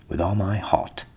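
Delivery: the cock gladly agreeing; willing rooster voice; eager rooster. A narrator's reading. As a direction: accept with relish.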